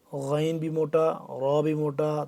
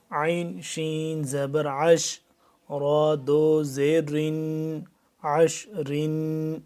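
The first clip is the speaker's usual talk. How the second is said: slow spelling drill; slower than usual. Shown as a demonstration. Teacher chants the spelling drill.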